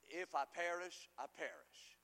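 slow, fading to a hush on the second phrase; solemn resolve. Acted. Quoting Esther's resolve.

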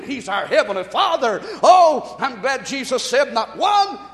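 loud, rising preacher exclamation; fervent pulpit delivery; full-force preaching. Real, not acted. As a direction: preach it out with a burst of volume.

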